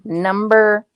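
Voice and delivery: slow, drawn-out number calling; bingo caller. Pretend.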